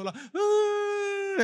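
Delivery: a very slow, high, drawn-out fake child's cry; a sulking child wailing again once she sees someone watching, hammed-up; mock tantrum wail. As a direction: stretch the sob out like a kid putting on a show. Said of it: "Ela olha pra pessoa".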